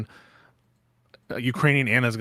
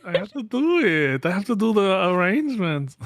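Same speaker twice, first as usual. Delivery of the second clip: imitating Melania; 5 semitones higher than usual. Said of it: "she was talking".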